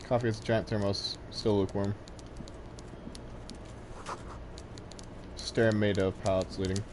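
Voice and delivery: talking while eating chips; crunching chips. Real, not acted. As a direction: mouth full of chips. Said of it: "Sorry, eating chips".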